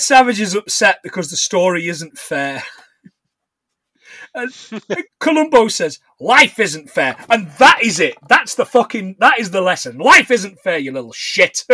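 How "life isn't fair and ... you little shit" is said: loud, punched-out blunt lesson; mock-stern telling-off; emphatic lecture. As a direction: hammer it home to a child. Acts Columbo's blunt lesson to child.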